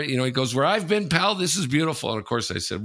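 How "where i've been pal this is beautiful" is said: higher, tough-guy gushing; a hint of a street-tough roommate; raving ex-con. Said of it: "this guy came in raving".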